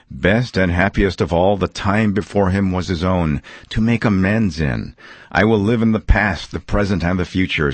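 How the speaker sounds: lightly voiced joyful Scrooge; a hint of old Scrooge, eager and glad; Scrooge waking up.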